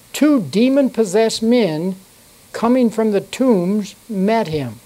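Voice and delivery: measured King James reading voice; steady pulpit reading; scripture reading. Acted. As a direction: read the Bible passage to the congregation. Reads scripture aloud in church.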